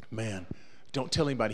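soft, low conspiratorial aside; hushed plea. Retold or imitated. Narrator quietly begging Daniel to keep it secret, soft. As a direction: keep it down, nobody can know.

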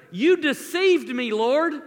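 loud, slow cry of accusation at God; anguished accusation. Acted. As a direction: hurl the complaint at God, slowly. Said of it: "Just listen to this".

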